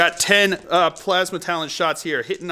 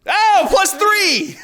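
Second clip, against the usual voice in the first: drawn-out high delighted shout; excited; 11 semitones higher, 4 dB louder, much slower than usual. Real, not acted. Game host cheering a lucky roll, slow high shout. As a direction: stretch it out, overjoyed.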